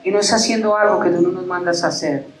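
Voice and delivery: earnest pastoral prayer to God; closing prayer. Acted. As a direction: pray over the congregation, slowing at the amen. (oración pastoral ferviente y pausada)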